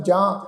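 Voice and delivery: ਜਾਂ with a nasalised long vowel; nasal pronunciation. Shown as a demonstration. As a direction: let the vowel of ਜਾਂ ring through the nose. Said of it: "ਜੱਜੇ ਨੂੰ ਕੰਨਾਂ ਉੱਪਰ ਬਿੰਦੀ ਸਹਿਤ ਨਾਸਕੀ ਉਚਾਰਨ".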